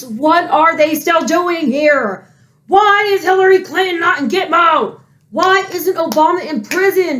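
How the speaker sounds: heated outburst of outraged questions; pissed-off yelling. Real, not acted. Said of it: "I'm yelling 'cause I'm pissed".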